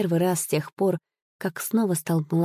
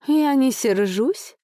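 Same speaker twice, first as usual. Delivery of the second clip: higher, slow, sing-song lady's voice; sing-song and tender; 6 semitones higher, slower than usual. A narrator's reading. The lady gently soothes her frightened lover, slow and sing-song. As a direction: lilt it sweetly and slowly. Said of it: "певуче и ласково ответила неведомая дама".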